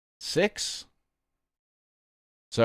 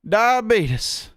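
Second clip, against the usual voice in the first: high, alarmed cry of the word; shocked exclamation; 8 semitones higher, much slower than usual. Real, not acted. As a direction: blurt it out in disbelief. Reacting to sugar content.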